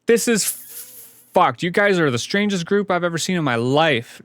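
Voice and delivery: loud, high, incredulous rant; high, loud exasperation; exasperated outburst. Real, not acted. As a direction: throw up your hands at them.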